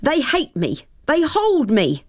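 shivering, teeth chattering. Acted. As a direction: shiver through the words. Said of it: "Her teeth chattered".

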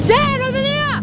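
high, loud alarmed call; urgent shout. Acted. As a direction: shout and point across the water. Spotting people in the water.

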